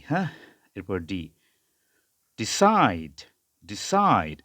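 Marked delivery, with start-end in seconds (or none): 2.4-4.4 "ডিসাইড" with short "di" and drawn-out "সাই"; diphthong "ai". Shown as a demonstration. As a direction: stretch the gliding "ai" in "ডিসাইড". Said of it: "এরকম উচ্চারণ হবে".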